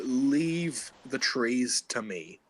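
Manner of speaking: slow, measured in-character line. Acted. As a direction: take it slowly, word by word, in character. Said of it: "in my character's voice".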